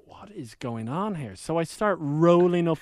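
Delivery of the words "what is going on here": baffled mutter. Retold or imitated. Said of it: "and I'm like".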